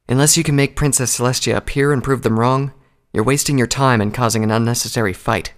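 mildly firm admonishment. Acted. Two Colt stops Applejack from fighting, firm. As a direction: lay it down firmly. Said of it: "Two Colt said firmly".

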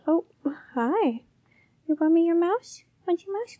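high, sing-song voice to a cat; pet talk. Real, not acted. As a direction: coo at the cat. Talking to her cat.

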